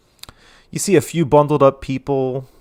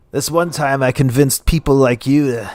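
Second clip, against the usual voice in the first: tipsy mocking chuckle into an insult; boast, then crack up at their stupidity; mildly drunken, gloating laugh; 5 dB louder than usual. Drunk character boasts, mocking listeners.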